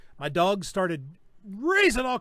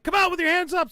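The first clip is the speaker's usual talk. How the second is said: a higher, louder mock police order; retold command; 10 semitones higher, 5 dB louder than usual. Marshals ordering the homeowner out, mock shouted command. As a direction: call it like cops ordering a suspect out. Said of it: "And they're like".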